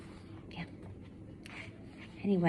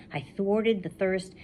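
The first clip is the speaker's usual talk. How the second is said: slow, leaning on "thwarted" and "thirst"; stressed alliteration; 4 semitones higher than usual. Shown as a demonstration. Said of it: "all starts with T H".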